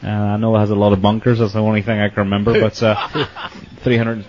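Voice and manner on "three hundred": laughing. Real, not acted. Laughs at the bunker count.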